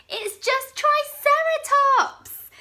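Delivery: high, loud mocking laugh. Bonehead laughing at his scared friends, high and loud. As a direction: crow with glee at the trick. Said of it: "Bonehead laughed".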